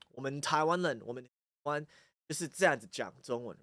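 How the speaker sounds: soft Taiwanese Mandarin, in one's own accent. Shown as a demonstration. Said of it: "This is like the accent that I have".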